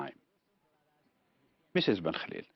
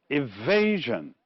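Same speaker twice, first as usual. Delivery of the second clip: evasion slowly, with VA stressed; stress on second syllable. Shown as a demonstration. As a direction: lean long on VA in evasion, then fall. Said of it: "it's the second one again".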